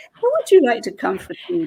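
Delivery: a touch of a high, sweet inviting voice; sweet hostess. Retold or imitated. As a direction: mimic a kindly invitation. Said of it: "she was very sweet".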